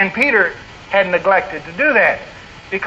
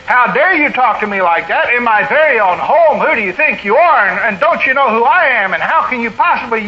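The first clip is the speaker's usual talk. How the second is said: mild mock tirade, indignant and pressing; acted-out angry telling-off, only slightly raised; retold vehement anger; 3 semitones higher than usual. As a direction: imitate an offended leader's scolding. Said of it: "laid into me with vehement anger and said".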